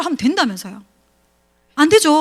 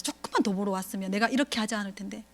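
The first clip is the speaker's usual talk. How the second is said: muttered grumble; 4 semitones lower, 11 dB quieter than usual. Retold or imitated. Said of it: "남편을 원망하는 거지".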